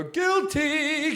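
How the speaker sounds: gleeful mock admission. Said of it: "They'll go".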